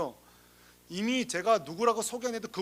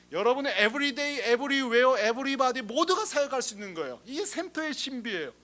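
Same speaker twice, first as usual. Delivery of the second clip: emphatic preaching; 5 semitones higher, 5 dB louder than usual. Real, not acted. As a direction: drive each word home to the pews. Preacher exhorting the congregation.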